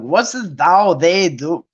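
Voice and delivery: stumbling, questioning puzzlement; mock confusion. Preachers baffled by old English wording, mock confusion. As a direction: puzzle over each odd word, with long pauses. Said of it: "it was confusing the heck out of the preachers".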